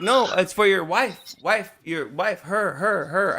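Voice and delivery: slow, emphatic retold insistence; insistent correcting. Process server telling husband it's for his wife, insistent. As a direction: hammer each word for someone who doesn't understand.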